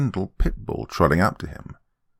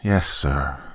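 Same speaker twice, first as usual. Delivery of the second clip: low, glum mumble; dejected mumble; 4 semitones lower than usual. Acted. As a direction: mumble it, beaten down. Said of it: "Ben mumbled dejectedly".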